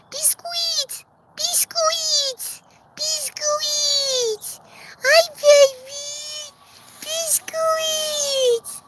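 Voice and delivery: very high, sing-song call to a pet hen; high chicken-calling voice. Real, not acted. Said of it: "as soon as I start talking like that to her".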